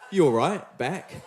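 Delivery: put-on a Kiwi putting on a British accent for laughs; jokey British accent. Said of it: "that's my British accent".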